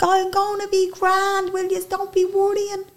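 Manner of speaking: imitating frail dad. Frail dad reassuring his children.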